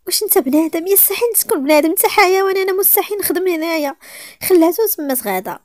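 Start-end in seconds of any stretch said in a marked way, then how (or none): 0.1-3.9 high, louder furious outburst; angry and loud. Acted. Nayra refusing to work for him, furious. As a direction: lash out at him in anger. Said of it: "بعصبيه وصوت عالي".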